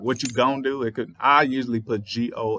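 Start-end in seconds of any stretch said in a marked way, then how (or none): 0.0-0.8 "gonna" clipped to "gon"; lazy slang. Shown as a demonstration. Showing the clipped slang version. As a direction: drop the end of "gonna". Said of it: "And when you get to the part".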